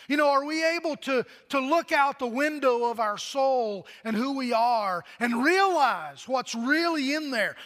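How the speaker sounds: rising preacher's appeal; preaching. Acted. Pastor challenging the congregation about what is inside, urgent preaching. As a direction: push the question at the pews.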